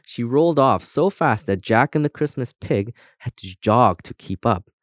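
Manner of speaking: usual speaking voice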